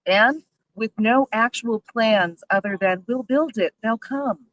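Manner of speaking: loud, slow, indignant emphasis; really angry, spelling out the complaint. Real, not acted. Brewery owner faulting the rival developer's lack of plans, angry. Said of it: "I'm so angry".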